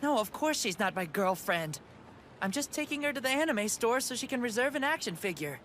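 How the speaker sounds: loud, high flustered denial. Acted. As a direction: deny it in a panicky rush.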